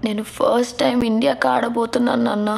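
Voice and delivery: holding back tears, understated; tearful. Acted. Daughter telling father she will play for India, tearful. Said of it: "ఎందుకు బంగారం ఏడుస్తున్నావు".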